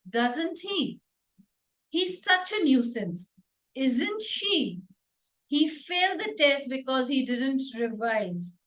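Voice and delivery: statement, then a tag whose pitch drops at the end; falling tone on question tags. Shown as a demonstration. Teacher models question tags with a falling tone. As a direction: let the short tag at the end fall, as if certain. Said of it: "every time it is a falling tone".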